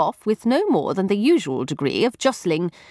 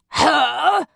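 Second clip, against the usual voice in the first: surprised; 9 semitones higher than usual. A narrator's reading. Mycroft explodes with question.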